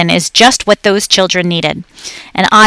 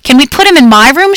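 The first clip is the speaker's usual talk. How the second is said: put-on higher, louder eager girl; excited child shout; 6 semitones higher, 4 dB louder than usual. A narrator's reading. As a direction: call out eagerly like a little girl. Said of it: "shouted Brenda".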